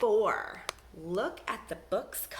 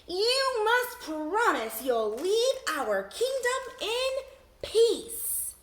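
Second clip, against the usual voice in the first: much higher, loud and slow demand; higher, slow, loud princess command; 13 semitones higher, 6 dB louder, much slower than usual. Acted. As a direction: order the dragon to give its word. Princess commands the pinned dragon.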